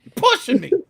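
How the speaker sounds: loud, high, heated shouting; furious yell. Retold or imitated. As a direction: go full hothead, ready to snap. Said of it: "I turn into Joe Pesci from Goodfellas".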